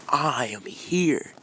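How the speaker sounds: loud, high, drawn-out hero entrance; booming superhero arrival; heroic announcement. Acted. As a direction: proclaim it big and slow. Hero jumps down announcing himself.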